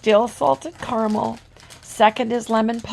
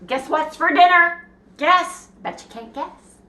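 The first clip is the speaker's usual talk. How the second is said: teasing; 7 semitones higher, 3 dB louder than usual. Acted. Teasing viewers about dinner.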